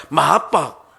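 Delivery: put-on a boy copying his teacher, laughing; giggling echo; parroting with a laugh. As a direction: repeat the word through a chuckle. Son parrots the word, laughing.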